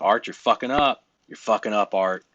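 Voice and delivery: mock demeaning coach, never said for real; demeaning nagging. Shown as a demonstration. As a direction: hammer the same insult at him. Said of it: "I don't say things like".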